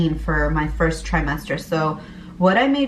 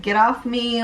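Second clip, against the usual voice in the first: higher, curt retold push-away; mock irritated snap; 6 semitones higher than usual. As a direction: shrug off the husband's hug with a little snap. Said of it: "I'd be like".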